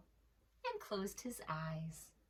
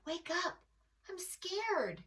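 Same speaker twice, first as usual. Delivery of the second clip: scared lamb; 9 semitones higher than usual. A narrator's reading. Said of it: "he whispered".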